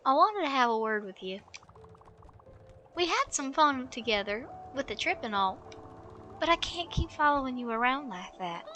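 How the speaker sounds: lightly voiced elderly woman, fed up; politely but firmly push someone away; weary old lady. Voices Alice scolding Stella.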